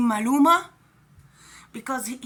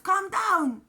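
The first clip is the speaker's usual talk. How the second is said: urging calm; 5 semitones higher than usual. Retold or imitated. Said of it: "he was telling Joseph".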